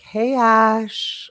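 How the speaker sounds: lightly mock-serene greeting; drawn-out, airy hello, imitated; all zen. Student coming upstairs after a parking fight, all zen. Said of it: "now you walk in all zen".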